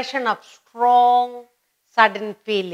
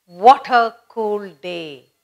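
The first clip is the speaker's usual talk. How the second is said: slow, louder sigh of relief; a slow, pleased exclamation at the rain; relieved exclamation; 5 dB louder, much slower than usual. Retold or imitated. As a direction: savour the cool rain. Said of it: "suddenly it rains".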